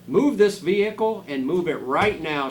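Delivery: loud, high commanding shout. Acted. Teacher orders the spaceship to move, loud commanding shout. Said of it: "she shouted".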